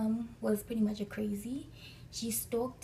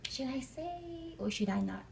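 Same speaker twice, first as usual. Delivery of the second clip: high, slow, drawn-out inner debate; retold dithering to oneself; hesitant wondering; 5 semitones higher, slower than usual. Retold inner hesitation over answering.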